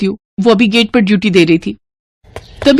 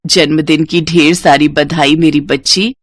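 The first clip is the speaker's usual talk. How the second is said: slow, lower mother's blessing; loving mother; 4 semitones lower, slower than usual. Acted. Mother wishing her daughter on the phone, slow and lower. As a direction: draw out her name fondly.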